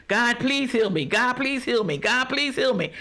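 mock pleading, pitched a bit high; imitated begging. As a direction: plead over and over in a sing-song imitation. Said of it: "you'll keep begging and asking God to".

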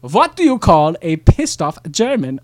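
put-on German accent. German joke setup.

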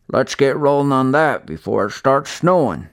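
gruff old man, lightly voiced; easygoing old neighbour.

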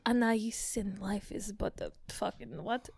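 Russian-sounding French attempt. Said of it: "She went Russian again".

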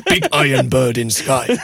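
slow broken caveman English; Neanderthal voice. Acted. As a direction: speak slowly like a caveman, laughing. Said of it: "I'm trying to do a Neanderthal speaking English".

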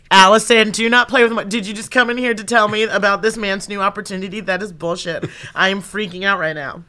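high, loud indignant rant at the producer; mock outrage. Imagined rant at the producer over the news, hammed-up anger. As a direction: tear into her, hammed-up fury. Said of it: "But in my head, I'm like".

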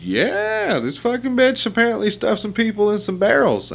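very high, strained conspiracy-guy voice; dead-serious coworker. Retold or imitated. Coworker stares him in the eye about the barrels, very high and intense. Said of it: "He goes".

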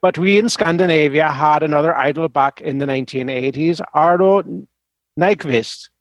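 put-on reading in a Swedish accent. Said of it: "the horrible Swedish accent".

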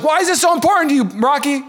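put-on high, fast girlish Adrian voice. Rocky's girlfriend questioning him, high girlish voice. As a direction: pitch way up for Adrian. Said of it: "And she's like".

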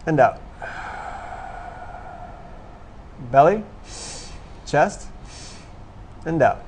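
short rising cues in, falling on the out; breathing exercise cues. Shown as a demonstration. Instructor leading a group through belly breaths, rhythmic cueing. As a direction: pace the breaths with spaced, lifted prompts.

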